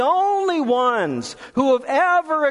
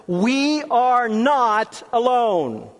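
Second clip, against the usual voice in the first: very slow, drawn-out declaration; congregational call; 3 semitones higher, much slower than usual. Shown as a demonstration. Preacher has congregation repeat it one more time, slow and emphatic. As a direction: stretch each word so all can join. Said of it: "One more time".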